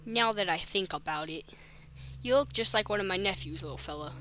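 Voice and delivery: lightly voiced Boston policeman; attempted Boston accent. Policeman making small talk with the new boy, light Boston accent. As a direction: put on a slight Boston accent. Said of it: "He's gonna have a Boston accent".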